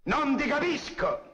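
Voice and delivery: high, slow bandit voice; imitating a bandit, drawn out high; bandit's retort. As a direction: mimic the bandit who can't understand. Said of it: "diceva il bandito a me".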